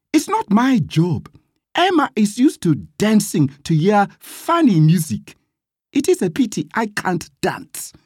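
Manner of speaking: high-pitched, pert reply; cheeky refusal. A narrator's reading. Gladys declines Emma's job from the Hectors, pert. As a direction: turn them down in a high, cheeky voice.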